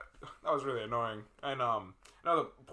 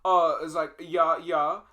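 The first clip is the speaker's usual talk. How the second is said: put-on Minnesota accent; 3 semitones higher, 8 dB louder, slower than usual. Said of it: "And they were like".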